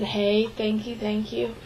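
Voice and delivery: softly, nervously repeating thank you; a hushed, shy thank you, thank you; quiet thanks. Retold or imitated. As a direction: drop the voice to almost nothing on the thanks. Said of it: "I was quiet".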